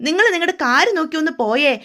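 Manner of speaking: a mild retold snap at his mother; angry retort. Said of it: "വീണ്ടും ദേഷ്യപ്പെട്ട് ഗോമതിയോട് പറയണേ". (ദേഷ്യത്തോടെ പറയുക)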